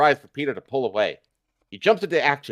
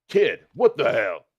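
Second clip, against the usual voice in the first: half shout half growl; 3 semitones lower, slower than usual. A narrator's reading. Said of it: "he half shouts, half growls".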